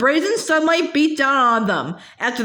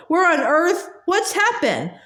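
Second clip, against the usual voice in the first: high voice cracking with alarm; 5 semitones higher than usual. Acted. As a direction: let the voice break upward. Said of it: "equally cracking voice followed".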